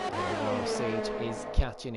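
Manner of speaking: high, eager call; urgent commentary; excited. Real, not acted. Chase builds.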